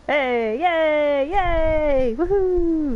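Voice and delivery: high, loud mock cheering; sarcastic woohoo. Mock celebration.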